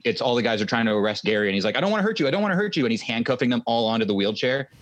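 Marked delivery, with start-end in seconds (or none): 1.8-2.8 much higher-pitched quoted warning; mock warning. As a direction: imitate a movie hero in a raised pitch. Quoting film hero warning his attackers.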